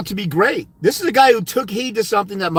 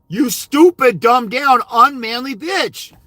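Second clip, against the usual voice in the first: angry rant; 4 semitones higher, slower than usual. Real, not acted. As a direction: spit out the insults slowly. Shouting insults at dads.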